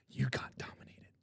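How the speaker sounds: whispered taunt, no voice at all. Real, not acted. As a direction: hiss the jab under your breath. Taunting a rival fan.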